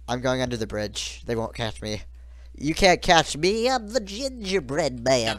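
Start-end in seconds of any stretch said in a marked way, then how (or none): 2.5-5.4 sing-song taunt. Pretend. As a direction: taunt them like a nursery rhyme. Teasing chase taunt.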